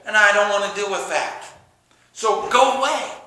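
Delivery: grumble, fed up with the noise; irritated complaint. Retold or imitated. Annoyed fellow believer telling a loud Christian to go away. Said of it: "look at you and say".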